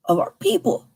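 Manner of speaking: people rising high. Shown as a demonstration. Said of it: "repeats the phrase".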